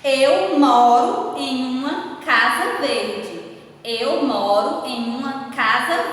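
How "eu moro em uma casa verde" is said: slow, word by word, reading the sentence aloud; teacher dictating the example sentence slowly to pupils, deliberate; slow dictation. Shown as a demonstration. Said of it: "Qual foi a palavra que eu utilizei".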